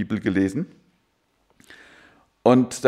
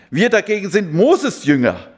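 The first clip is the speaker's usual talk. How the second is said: proud retort; 5 semitones higher, 4 dB louder than usual. Retold or imitated. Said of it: "schrien sie ihn an".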